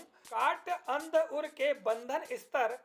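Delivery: slow, measured reading of verse; poem recitation. Shown as a demonstration. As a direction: recite each line slowly like a poem. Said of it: "मैं पढ़कर बताता हूं". (धीमी गति से कविता पाठ)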